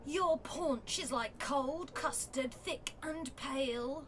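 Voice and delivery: slow, deliberate poem recital; a wife reading her honest poems; poetry reading. Acted. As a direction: recite it like a spoken-word poet, taking your time. Reads her poetry aloud.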